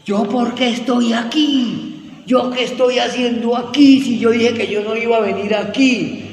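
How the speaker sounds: protesta imitada, aguda, alargada y fuerte; gritos desesperados imitados. Retold or imitated. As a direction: imitar a quien grita desesperada en plena congregación. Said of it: "empezó a gritar, pero duro". (grito desesperado actuado)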